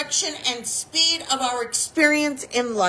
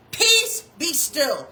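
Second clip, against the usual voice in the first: firm, short command; calm but absolute order; 3 semitones higher, much slower than usual. Retold or imitated. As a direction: say it with full authority. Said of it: "He said it with authority".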